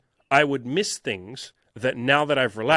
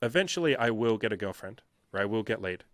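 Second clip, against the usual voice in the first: settled, lowered self-reassurance; calm self-talk; 3 semitones lower than usual. Acted. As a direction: act out letting the pressure go. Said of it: "you take a deep breath and say".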